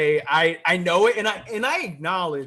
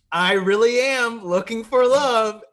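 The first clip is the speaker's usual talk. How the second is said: loud, slow, higher-pitched declaration; mock earnest contestant; 6 semitones higher, 7 dB louder, slower than usual. Podcaster imitates love-seeking contestants, mock earnest. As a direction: draw it out like an overearnest contestant. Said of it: "people who are like".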